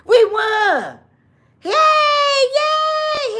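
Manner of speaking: high, loud celebratory shouting; mock victory cheer. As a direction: cheer like you just won big. Biden celebrating, running around cheering.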